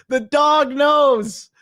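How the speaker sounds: high, drawn-out cry through real laughter; laughing. Real, not acted. Streamer cracking up at the dog in the photo, laughing. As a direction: crack up while saying it, high and slow.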